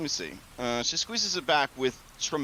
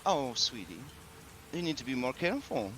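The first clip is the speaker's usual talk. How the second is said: motherly hostess; 6 dB quieter than usual. Acted. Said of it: "she says".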